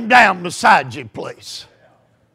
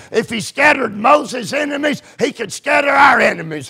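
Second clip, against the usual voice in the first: raised, fervent preacher's prayer; 3 semitones higher than usual. Shown as a demonstration. Preacher modelling a parent's morning prayer, fervent praying. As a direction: call on God with rising intensity.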